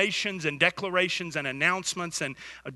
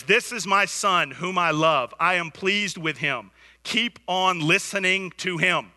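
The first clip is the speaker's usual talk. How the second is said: voice of God; 4 dB louder than usual. Acted. God's voice quoted in sermon.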